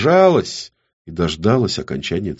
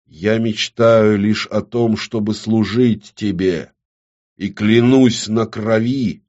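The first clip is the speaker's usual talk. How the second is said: slow, measured vow; solemn oath; 3 semitones higher, 3 dB louder, slower than usual. A narrator's reading. Woman swearing service in blood, slow and solemn. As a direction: recite it ceremonially, word by word. Formal oath recited at altar.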